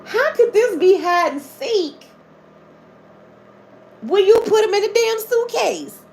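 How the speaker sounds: high-pitched disbelieving laughter; incredulous laughing. Real, not acted. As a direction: laugh at how absurd the story is. Laughing disbelief at hide and seek.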